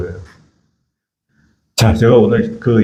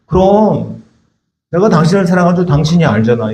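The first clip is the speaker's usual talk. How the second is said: evasive reply; 3 semitones higher than usual. Shown as a demonstration. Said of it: "물어봤는데 또 얘기해".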